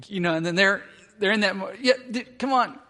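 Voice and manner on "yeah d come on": put-on high-pitched dad egging on a child; lightly acted encouragement; coaxing. Dad coaxing his little kids to jump, encouraging.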